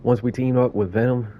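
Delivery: lightly voiced New York raccoon; storytelling in a loosely faked New York accent; badly faked New York accent; sarcastic New York accent. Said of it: "That was my worst New York accent".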